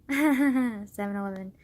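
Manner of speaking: laughs, then slowly savors "Seven eleven"; giggling repeat. Real, not acted. Amused vlogger repeating the time, giggling. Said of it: "wow, I'm a child".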